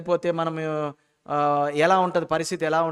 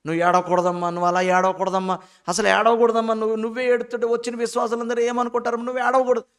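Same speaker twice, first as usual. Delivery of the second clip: mock admonishing; 3 semitones higher, 4 dB louder than usual. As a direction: imitate someone telling a pastor's wife off, rising as it goes. Acts out mourners' comforter scolding wife. (మందలిస్తున్నట్టు అనుకరణ)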